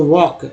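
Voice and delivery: वॉक said "wawk", no L sound; silent L. Shown as a demonstration. Teacher showing a silent letter, वॉक without L. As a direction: drop the L in वॉक. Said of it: "एल silent हो जाता है".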